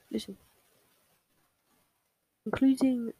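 whispered word. Real, not acted. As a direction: breathe it out unvoiced.

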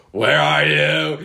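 high, slow, pleading call of where are you; anguished cry to God. Retold or imitated. Speaker retelling a prayer to God, pleading high and slow. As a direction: stretch out a desperate plea to God.

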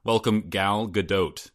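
GADOT with a long O and a sounded T; slow, deliberate Gadot with the T pronounced; overdone O. Real, not acted. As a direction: stretch the O in Gadot and finish on a hard T. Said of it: "overdoing the O sound".

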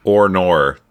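mild mock Aussie "oh no"; mock Australian accent. Co-host trying the Aussie drawl, mild mock Australian accent. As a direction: try out an Australian "oh no". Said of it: "pretty much just how we sound".

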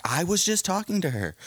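high-pitched mimicked protest; mock defensive. Partner defending themselves in a street fight, mock defensive. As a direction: imitate a quarreller insisting on innocence.

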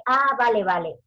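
a mock "Ah, vale, vale" with a punched "Ah" and falling "vale"; mimicked catchphrase. A mother quoting the teacher's "Ah, vale, vale" habit, mock falling tone. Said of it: "¿Quién de vosotras dice".

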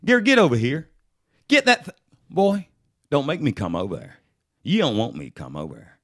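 Southern white accent. Shown as a demonstration. Parent warning the boy in a Southern white accent. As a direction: call out then warn him in a Southern white twang. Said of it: "Southern white might be".

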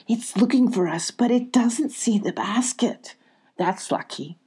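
hushed whisper. Acted. Molly whispering to Abby from the basket. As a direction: keep your voice down so it won't hear. Peeking from hiding.

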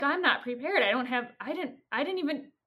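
retold flustered objection; flustered protest. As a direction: stammer out excuses, caught off guard. Steve panics about going on stage.

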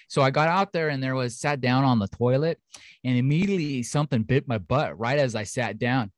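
lightly put-on North Dakota accent; folksy North Dakota accent for a witness quote. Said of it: "North Dakota".

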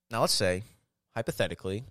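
lightly done fast-talking debater; Ben Shapiro impression. Trying a mock pundit voice for his friend, fast and mild. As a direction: rattle off a hypothetical like a quick pundit, only lightly. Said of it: "Let's see if I can do a good Ben".

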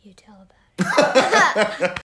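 whispering. Real, not acted. Shy daughter whispering to dad.

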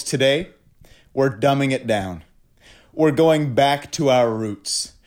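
pompous announcer read, tongue in cheek; mock-grand host intro. Host welcoming the guest, mock-grand intro. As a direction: sell the intro like a showman.

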